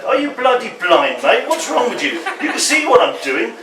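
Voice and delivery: exasperated road rage. Acted. Dad near home yells at another driver, exasperated. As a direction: bark it at the car ahead. Poem voices driver yelling at motorist.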